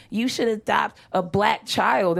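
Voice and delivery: slow, lightly voiced offended grandmother. Grandmother scolding her grandchild about adoption, mildly offended. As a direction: mildly put out, word by word. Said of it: "She was all offended".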